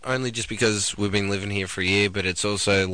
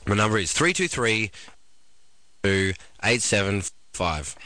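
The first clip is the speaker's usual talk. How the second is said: slow, careful; 2 semitones lower, slower than usual. Retold or imitated. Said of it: "you're like".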